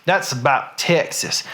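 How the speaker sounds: demonstrating a Texas accent, lightly thickened. Shown as a demonstration. Showing Pam how Texas sounds, Texas accent. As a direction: lean a little further into a Texas twang. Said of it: "your accent gets a little bit more like this".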